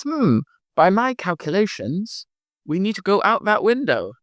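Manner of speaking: lightly voiced nerd, pondering; nerdy Mimi. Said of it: "Mimi the nerd, she goes".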